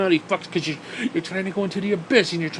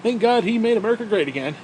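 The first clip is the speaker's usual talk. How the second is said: higher, gushing mock praise; mock Trump praising God; 4 semitones higher than usual. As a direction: ham up a fake pious tweet. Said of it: "Trump is gonna come out on Twitter and say".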